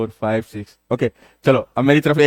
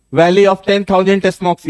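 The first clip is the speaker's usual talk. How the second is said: Valley of ten thousand Smokes, very slow, higher and louder; slow emphatic name; 5 semitones higher, 5 dB louder, much slower than usual. Shown as a demonstration. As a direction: spell the name out slowly and loudly for the class. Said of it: "teacher stresses the unique name". (नाम को बहुत धीरे और ज़ोर से बोलते हुए)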